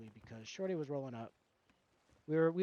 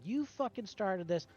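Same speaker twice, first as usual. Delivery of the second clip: retelling a rant, pitched a little higher; retold angry outburst; 4 semitones higher than usual. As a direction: go off at the opponent, half in earnest. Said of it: "I was going off".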